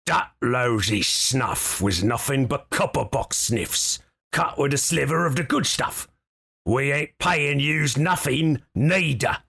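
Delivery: lightly voiced gruff goblin boss; a hint of a tough goblin thug. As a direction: goblin boss turning down the debt, mildly gruff.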